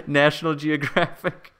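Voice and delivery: hammed-up Australian wildlife presenter; terrible Australian accent. Livestream host spoofing National Geographic for viewers, terrible Australian accent. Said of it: "my terrible Australian accent".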